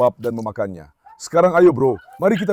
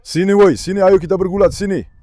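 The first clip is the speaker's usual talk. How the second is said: a higher, louder call to wrestle; playful loud calling; 4 semitones higher, 4 dB louder than usual. Real, not acted. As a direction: egg the dog on playfully. Mengajak anjing bergulat. (ajakan bergulat yang riang dan keras)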